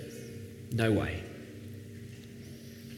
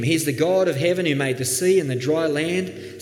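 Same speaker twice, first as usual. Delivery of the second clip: joyful proclaiming; 4 semitones higher than usual. Pretend. Jonah on the mountaintop praising God to the world, jubilant. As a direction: proclaim it to the whole world with delight. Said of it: "he could have been sitting on the mountaintop saying".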